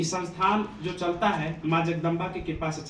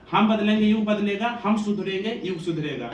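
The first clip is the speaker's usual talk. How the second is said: raised, louder motto delivery; slogan recital; 3 semitones higher, 3 dB louder than usual. Real, not acted. Speaker repeats a reform motto to students, rallying slogan recital.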